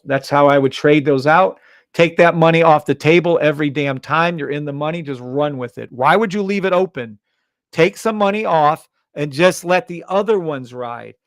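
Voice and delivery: loud, urgent trading hype; screaming at viewers. Real, not acted. Streamer yelling at chat to take the money, loud. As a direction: yell at them to take profits now. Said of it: "What are you screaming about selling?".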